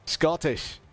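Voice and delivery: tentative put-on Scottish accent. Shown as a demonstration. Streamer attempting it while sim racing, Scottish accent. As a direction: try out a Scots accent while thinking aloud. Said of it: "Gotta think about the Scottish accent".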